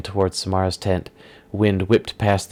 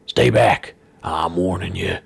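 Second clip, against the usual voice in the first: startled villain; slower than usual. Acted. Startled villain warns newcomers.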